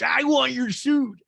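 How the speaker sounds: high, loud, drawn-out mock cry; Renee impression. Renee butts in on the suit talk, hammed-up and loud. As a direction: belt it out slowly, way up high. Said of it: "And Renee goes".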